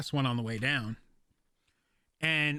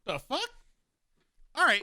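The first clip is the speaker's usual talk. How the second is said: stunned; 9 semitones higher than usual. Retold or imitated. Stunned by two coffees.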